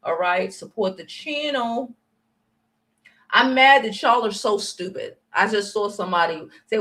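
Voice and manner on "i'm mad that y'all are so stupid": loud, angry scolding; furious at her chat. Real, not acted. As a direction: tell them off hard.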